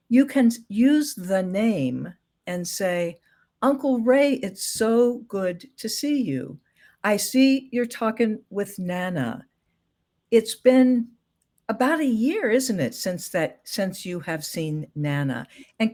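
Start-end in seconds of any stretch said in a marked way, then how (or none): 3.6-15.5 gently voiced greeting with slow, drawn-out phrases; kindly, unhurried example greeting; gentle prompting. Shown as a demonstration. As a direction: take your time, feeding in the memory kindly. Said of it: "a much gentler way of saying it".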